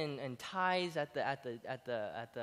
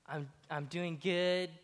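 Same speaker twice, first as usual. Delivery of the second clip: slow mock answer; slower than usual. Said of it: "Then you say".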